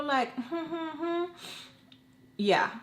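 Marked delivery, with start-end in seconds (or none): 0.4-1.6 high, soft mock whimper; little put-on whimpering sound; imitated whimper. Storyteller admitting she got scared, mock whimpering. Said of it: "As much as I act like a little".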